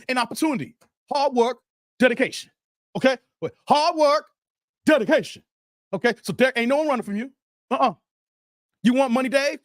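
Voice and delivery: Floyd impression. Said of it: "let me do my Floyd with Derek".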